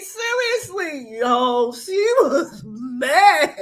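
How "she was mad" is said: laughing. Real, not acted. Laughing over angry opponent.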